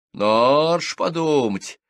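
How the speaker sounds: scandalised at the prude; indignant widow bursts out about the scandal. A narrator's reading. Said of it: "возмутилась Ленка".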